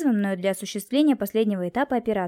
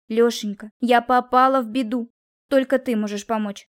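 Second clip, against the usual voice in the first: imploring; 2 semitones higher, 4 dB louder than usual. A narrator's reading. Pleads for help after snub.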